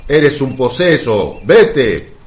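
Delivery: accusing Pharisee; indignant dismissal. Acted. Pharisee ordering the possessed man away, indignant. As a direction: cast him out with scorn. Pharisee insults and expels Jesus.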